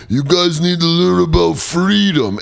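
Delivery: high, slow action-hero proclamation; Rambo. Acted. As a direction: drag it out like a hammy movie hero. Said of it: "Rambo's like".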